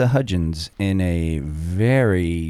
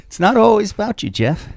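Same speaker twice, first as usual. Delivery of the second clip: high, quick laughing jab; laughing tease; 4 dB louder than usual. Real, not acted. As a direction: tease him through a laugh. Teasing retort, laughing.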